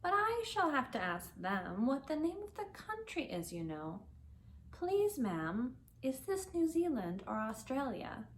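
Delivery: put-on young Alice practising good manners; Alice's voice. Alice rehearses polite question.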